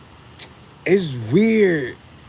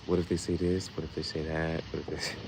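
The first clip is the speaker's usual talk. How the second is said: anxious murmur; 9 semitones lower, 13 dB quieter than usual. Retold or imitated. Rehearsing anxious thoughts.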